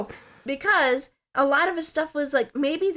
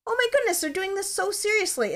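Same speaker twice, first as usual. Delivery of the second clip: mock amazement; 9 semitones higher than usual. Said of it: "I'd be like".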